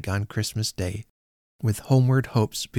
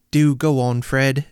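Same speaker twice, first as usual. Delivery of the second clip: louder, bright and eager; eager niece; 3 semitones higher, 5 dB louder, slower than usual. Acted. Niece clapping, urging Fred to go on, eager. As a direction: urge him on gleefully. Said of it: "clapping her hands".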